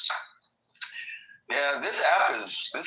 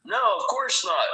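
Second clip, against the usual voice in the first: high whiny mimic; mocking high voice; 11 semitones higher than usual. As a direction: mimic him in a squeaky voice. Retold argument, mimicking the other.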